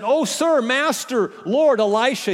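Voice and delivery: a mild cry of alarm. A narrator's reading. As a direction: call out to Elisha in distress. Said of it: "he cried".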